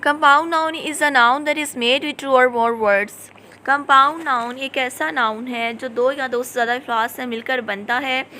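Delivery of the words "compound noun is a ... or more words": slow, deliberate reading of the definition; slow dictation. Shown as a demonstration. Teacher reading a definition to her class, slow and deliberate. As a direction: read it out word by word for students to copy.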